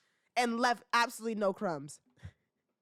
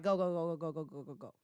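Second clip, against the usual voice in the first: rattled-off go's trailing away softly; rapid dismissive go-ahead; 5 semitones lower, 4 dB quieter, faster than usual. Retold or imitated. Boyfriend sending his girlfriend up on stage, quick fading go-ahead. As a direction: imitate a boyfriend waving her on, fading out.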